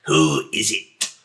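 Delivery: low, slow booming voice. Acted. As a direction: boom it out from inside the house. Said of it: "you hear this booming voice come out".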